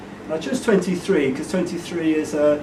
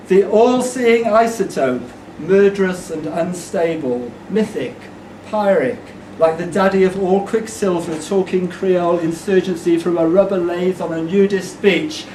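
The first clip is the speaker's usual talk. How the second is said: emphatic poem delivery; performed verse with weighted words; poetry recital. Acted. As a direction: declaim the lines to a crowd.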